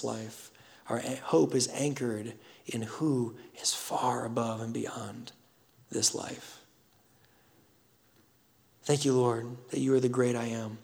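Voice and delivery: measured, reverent prayer with long pauses. Real, not acted. Pastor praying to the Heavenly Father, reverent and measured. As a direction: pray unhurriedly, leaving room between phrases.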